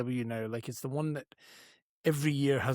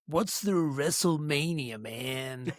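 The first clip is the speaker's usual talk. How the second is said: lightly teasing imitation of a co-host; slightly drawn-out mock catchphrase, dropping off at the end; Jason; much slower than usual. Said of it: "Jason often says".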